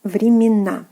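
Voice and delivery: whispered времена. Shown as a demonstration. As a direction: whisper the word for learners. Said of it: "So, uh".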